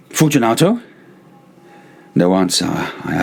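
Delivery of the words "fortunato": calling out. A narrator's reading. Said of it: "I called out".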